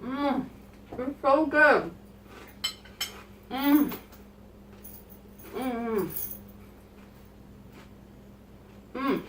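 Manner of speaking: talking through a big bite; chewing, words muffled by food; mouth full. Real, not acted. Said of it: "Sorry, my mouth is so full".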